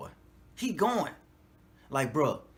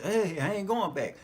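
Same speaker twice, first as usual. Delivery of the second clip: defiant declaration; 5 semitones higher, 4 dB louder than usual. Retold or imitated. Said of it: "That's why I say".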